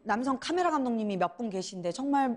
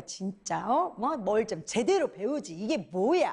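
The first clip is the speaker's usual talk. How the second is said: grumbling; 4 semitones lower than usual. Retold or imitated. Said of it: "막 꿍시렁거리고".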